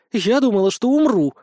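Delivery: put-on high, clear girlish exclamation; ringing little voice. A narrator's reading. Vesnushka recovers from being tickled, ringing little voice. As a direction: lift it like a babbling mountain brook. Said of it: "Голосок у Веснушки был подобен горному ручейку".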